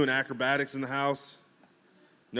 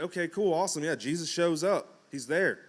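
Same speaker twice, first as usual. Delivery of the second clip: pitched up, eager reaction; excited; 4 semitones higher than usual. Retold or imitated. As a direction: act out your own delight on reading it. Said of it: "and I'm like".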